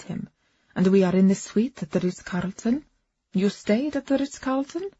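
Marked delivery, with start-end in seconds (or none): 3.3-4.9 surprised. Acted. Listener interrupts, surprised.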